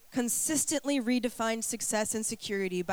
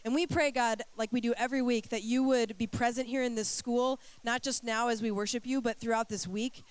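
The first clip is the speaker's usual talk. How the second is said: prayer. Acted. Leads congregation in prayer.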